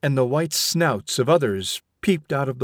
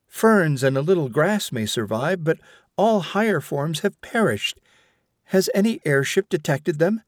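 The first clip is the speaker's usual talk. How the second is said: higher, insistent mother arguing; stern mother; 4 semitones higher than usual. Acted. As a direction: press the point like a scolding mother. Vashti keeps arguing.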